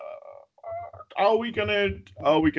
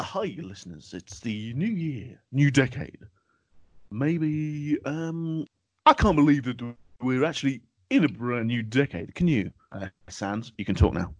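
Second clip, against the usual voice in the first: lightly put-on radio host, pitched down to soothe; soothing radio voice. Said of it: "started the first episode with an accent".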